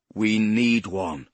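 slow, stubborn, stress on need; persistent. Acted. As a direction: insist slowly, leaning on need. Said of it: "Poe persisted".

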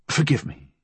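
gentle apology, pitch lifted; a touch of tenderness; gentler. A narrator's reading. Fool apologises to wounded Flood, gentler. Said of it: "his voice gentler".

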